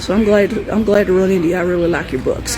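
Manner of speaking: lightly voiced Southern good old boy; hint of a Louisiana accent; Southern accent imitation. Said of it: "I'm gonna imitate his accent".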